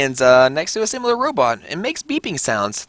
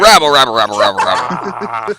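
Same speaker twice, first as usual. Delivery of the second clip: crowd murmur; 3 semitones lower, 5 dB louder than usual. Pretend.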